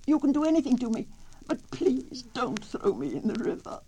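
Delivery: high, fast, loud mock scream; screamed plea. A narrator's reading. Turtle being carried to the river, high and fast. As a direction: shriek the plea in a hurry. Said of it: "the little turtle screamed".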